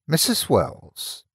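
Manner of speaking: put-on thick rural English accent, slow. A narrator's reading. Narrator greets old woman in rural accent, slow. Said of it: "in the same thick rural accent".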